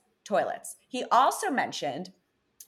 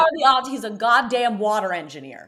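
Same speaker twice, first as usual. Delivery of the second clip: louder, higher, hammed-up outrage; mock outraged disbelief; 4 semitones higher, 7 dB louder than usual. To cohost about a water engineer, hammed-up louder disbelief. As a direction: throw up your hands at the absurd coincidence.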